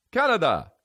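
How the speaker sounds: high-pitched mock Canadian pronunciation; mock Canadian accent. Prank show signing off, mock Canadian accent. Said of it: "that's how they say it".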